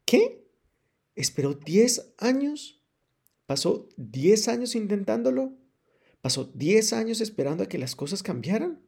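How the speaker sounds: high, loud, slow disbelief; shocked. Acted. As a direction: shout it in disbelief. Writer shocked by the news. (asombro a gritos)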